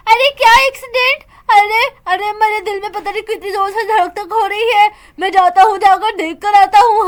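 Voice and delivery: husband hearing his wife is hurt; shocked husband. Acted. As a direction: jolt with fear, heart racing. Husband hears of the accident.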